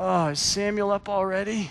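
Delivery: drowsy half-awake groan. Telling of waking their wife on Easter morning, the speaker imitates a sleepy groan. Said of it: "sleepily groaned".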